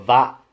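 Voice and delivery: "that" cut off without its t; "that" ending in a bare vowel; Northern dropped T. Shown as a demonstration. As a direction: swallow the t of "that". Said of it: "like Northern England".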